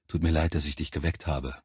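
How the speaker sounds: soft, low apology; hushed, near whisper. A narrator's reading. Soldier apologising to the woken bunkmate, hushed. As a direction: keep it down beside a sleeper. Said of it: "flüsterte ich".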